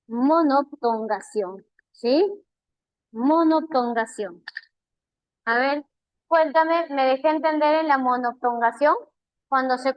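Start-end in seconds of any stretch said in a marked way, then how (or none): 0.1-4.4 slow, careful term said for the class; slow repetition. Shown as a demonstration. Teacher repeating the new term slowly for students. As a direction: drag out "monoptongación" one syllable at a time. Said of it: "Repito otra vez".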